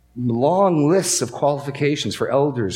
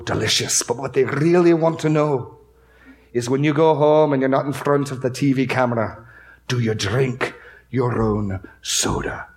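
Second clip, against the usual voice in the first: a light Scottish brogue, imitating the visiting preacher. Preacher imitating Eric Alexander leaning over the pulpit, light Scottish brogue. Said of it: "in his rich Scottish brogue".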